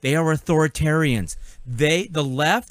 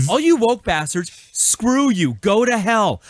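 raised, heated telling-off; angry outburst; 3 semitones higher, slower than usual. Real, not acted. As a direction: vent it at them with real anger. Angry rant at "woke" opponents.

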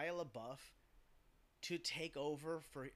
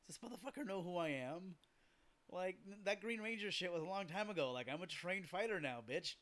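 cocky tough guy; 4 semitones higher than usual. Retold or imitated. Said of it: "Jason David Frank is like".

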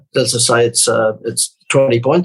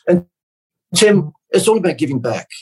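lightly preachy seminar guru; hint of a slick motivational speaker; 6 semitones higher than usual. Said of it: "I'm gonna sound like a seminar speaker".

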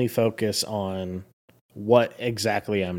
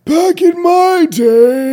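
put-on slow, high, loud old man croak; creaky old geezer complaining; grumpy old man; 12 dB louder, much slower than usual. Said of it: "an old man voice".

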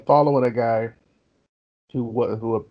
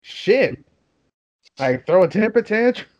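higher teasing complaint; mock disappointment; 8 semitones higher than usual. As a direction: tease him for giving up so easily. Mocking thief for giving up.

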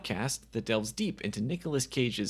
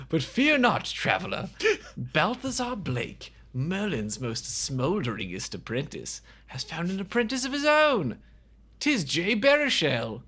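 put-on British storyteller, louder in bursts; mock British narrator; 4 semitones higher, 3 dB louder than usual. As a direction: proclaim it like a pompous British bard. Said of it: "Nobody in this movie has a British accent".

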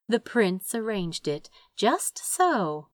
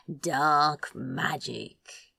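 slow, softer, offhand reply; casual; 4 semitones lower, 4 dB quieter, much slower than usual. Acted. Crow brushes off the question of his clothes, slow offhand. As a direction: toss it away lazily. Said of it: "Crow replied casually".

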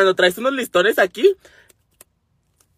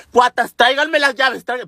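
urgent raised-voice call; higher-pitched urgent shout; 4 semitones higher, 3 dB louder than usual. Retold or imitated. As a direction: call to the twins to hurry with the keys. Calls neighbours to bring keys.

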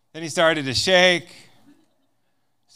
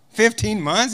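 "Fifteen months?" higher with a rising question tune; incredulous question; 4 semitones higher than usual. Retold or imitated. The speaker repeating the American's answer, incredulous and higher. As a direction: repeat "Fifteen months?" in disbelief, pitch up at the end.

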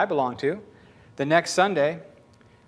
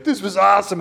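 gushing friend; 6 dB louder than usual. Retold or imitated. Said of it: "call their friends and be like".

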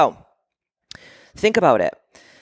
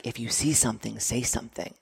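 softer, flat public-notice read; reading a sign; 4 semitones lower, 11 dB quieter than usual. Retold or imitated. Quoting the airport sign, quiet and flat. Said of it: "these signs that says".

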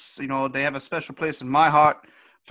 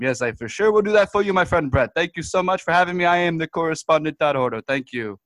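a lightly raised, folksy Canadian guest voice, rambling; goofy Canadian correspondent; 2 semitones higher than usual. Acted. Correspondent Todd Hardo phones in to the news desk, folksy and rambling. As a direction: play a dim, friendly hoser reporter.

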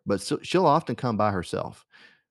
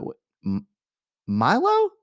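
Milo's name jumps much higher and louder; shocked recognition; 8 semitones higher, 4 dB louder than usual. Retold or imitated. Spotting Milo behind Marjorie, shocked high call. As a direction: gasp out the name in disbelief.

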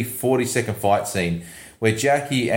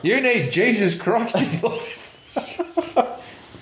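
mock preachy bigot; 11 semitones higher, much slower than usual. Mocking imagined preachy local.

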